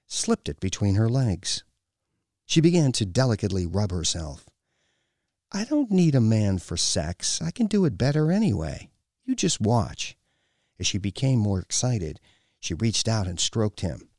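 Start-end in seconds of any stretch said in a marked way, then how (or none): 5.5-10.2 lightly voiced haughty woman, a bit higher; domineering woman. A narrator's reading. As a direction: taunt him with disdain. Woman taunts the man.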